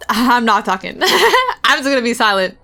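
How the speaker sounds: giggling through the words; laughing. Real, not acted. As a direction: laugh while admitting it. Laughing at herself.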